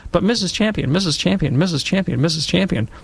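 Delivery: precocious first grader calling out to his teacher; eager child. Retold or imitated. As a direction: hand up, keep pleading for the teacher's attention.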